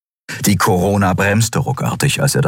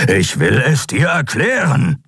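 growling, raised creature voice; growled plea; 8 semitones higher than usual. A narrator's reading. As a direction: growl it urgently, pitched up. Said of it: "knurrte Keru".

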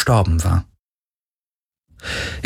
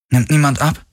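higher-pitched drowsy woman's question; sleepy; 8 semitones higher than usual. A narrator's reading. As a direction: ask it as if just woken. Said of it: "Sie klang verschlafen".

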